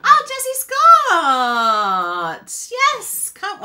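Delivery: loud, drawn-out excited cry; high, ringing, thrilled yes; delighted call-out. Real, not acted. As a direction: greet a viewer with a big stretched shout. Calling out delightedly to a viewer.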